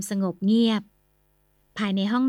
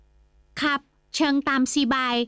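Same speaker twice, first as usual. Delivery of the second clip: put-on higher, slow Chinese-Thai accented reply; 5 semitones higher, much slower than usual. Merchant Kim Sai excuses his friend in Chinese-Thai accent.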